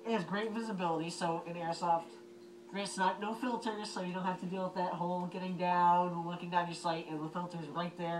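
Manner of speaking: talking through a gas mask voice emitter; muffled through gas mask. Real, not acted. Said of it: "I'm gonna put it on so you get to see the voice emitter".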